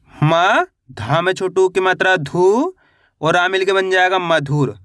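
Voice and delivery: म alone, धू held long and rising, then मधुर whole; syllable-by-syllable spelling. Shown as a demonstration. Teacher showing beginners how to read मधुर, syllable by syllable. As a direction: sound out मधुर piece by piece. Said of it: "एक एक अक्षर का उच्चारण करके".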